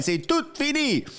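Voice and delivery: said in French with a lifted pitch; a dramatic French aside; French phrase. Real, not acted. A host to his viewers, a dramatic French aside. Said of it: "as they say".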